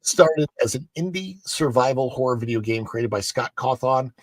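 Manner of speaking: animated, emphatic presenter reading; news article read. Acted. Host reading Halloween Horror Nights article, animated news-read delivery.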